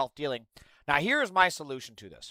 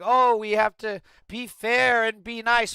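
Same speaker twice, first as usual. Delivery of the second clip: high, slow whiny mock voice; mocking the nice crowd; 7 semitones higher, 6 dB louder, slower than usual. Streamer mocking people who want fairness, whiny and high. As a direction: sneer their plea back at them. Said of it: "this bullshit of like".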